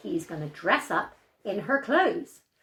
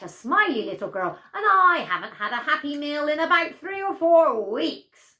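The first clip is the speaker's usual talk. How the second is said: gloating wolf; 4 semitones higher, 5 dB louder than usual. Acted. Wolf reveals himself.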